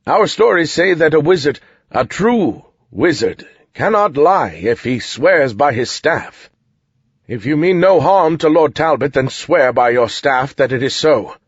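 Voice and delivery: solemn, insistent soldier; soldier's voice. Acted. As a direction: press the wizard to swear. Soldier demands a wizard's oath.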